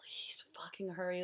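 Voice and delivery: whispered plea re-enacted for a dispatcher; urgent whisper. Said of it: "I was whispering to the nine one one girl".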